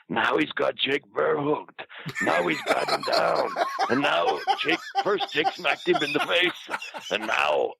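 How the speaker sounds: high, drawn-out mock play-by-play; Bushwhacker. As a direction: narrate the fight in an excited put-on voice. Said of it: "narrating everything to everybody".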